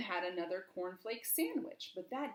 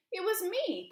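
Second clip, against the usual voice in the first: high, louder eager reply; piped up; 10 semitones higher, 7 dB louder than usual. Acted. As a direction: pipe up proudly. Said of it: "piped up Mister Silly".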